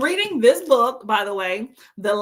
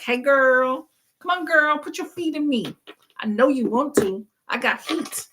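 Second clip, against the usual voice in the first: tempting massager; 4 semitones higher than usual. Pretend. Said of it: "That's what it's saying".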